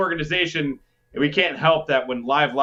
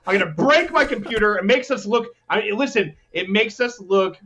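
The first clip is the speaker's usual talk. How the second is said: mock fury; 4 semitones higher than usual. Real, not acted. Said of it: "I'm so angry right now".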